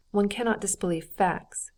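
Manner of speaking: "facts" given firm emphasis as the point; stress on facts. A narrator's reading. Husband answering Dolly's disbelief, emphasis on "facts". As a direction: lean on the word "facts". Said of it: "with an emphasis on the word facts".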